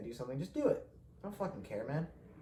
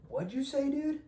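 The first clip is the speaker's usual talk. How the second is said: high, loud, mocking tough-guy challenge; hammed-up high-pitched imitation of an angry stranger; aggressive challenge; 4 dB louder than usual. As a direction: squeal it out like an offended drunk picking a fight. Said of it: "and he's like".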